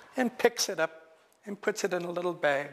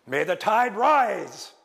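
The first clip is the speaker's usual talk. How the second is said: stern spell; 3 semitones higher, 6 dB louder, slower than usual. Acted. Cake casts spell to drown Raven.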